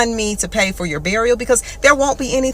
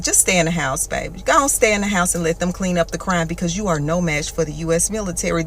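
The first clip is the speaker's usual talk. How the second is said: condescending soft; 3 semitones lower, 4 dB quieter than usual. Acted. Condescending advice to gang member.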